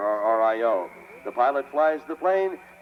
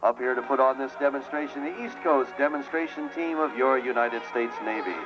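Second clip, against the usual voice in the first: airshow commentator. Real, not acted. Live airshow commentary over PA.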